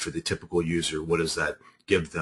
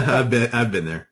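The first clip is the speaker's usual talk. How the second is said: laughing; 4 semitones higher, 4 dB louder than usual. Real, not acted. Laughing along at cough mishap.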